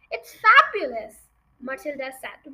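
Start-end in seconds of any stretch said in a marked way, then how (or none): 0.1-1.2 high, loud burst of enthusiasm; delighted admiration. Acted. Matilda admiring her friend's parrot, loud and thrilled. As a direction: exclaim it with delight.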